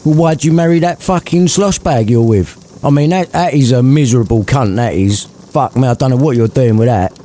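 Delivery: lightly voiced scornful old man; mock him with contempt; sneering Scrooge. Scrooge mocking Fred's marriage, lightly voiced. Scrooge insulting nephew's wife.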